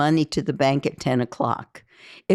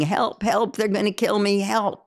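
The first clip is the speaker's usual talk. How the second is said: mild mock scream, pitched higher; higher, understated cry for help; retold screaming; 5 semitones higher than usual. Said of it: "out the door screaming".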